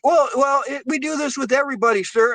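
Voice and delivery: mock flustered rep. Caller mocking the nervous utility clerk, high and fast. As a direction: squeak out the excuse like a caught clerk. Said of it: "And they're like".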